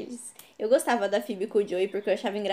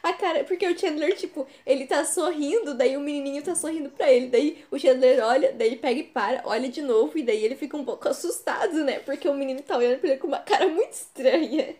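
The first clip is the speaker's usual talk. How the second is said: after laughing hard; 2 semitones higher than usual. Real, not acted. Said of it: "preciso me recuperar".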